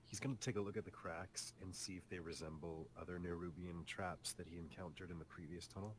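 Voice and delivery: ordinary talk, nothing marked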